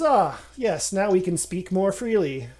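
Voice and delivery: loud, knowing greeting; sly greeting. Acted. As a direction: greet an old rival slyly. Gnome greets in true form.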